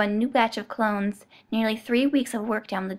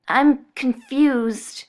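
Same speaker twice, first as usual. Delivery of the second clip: very slow, small mewed words; mewing; 3 semitones higher, 6 dB louder, much slower than usual. Acted. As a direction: mew it out helplessly. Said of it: "he almost mewed out the words".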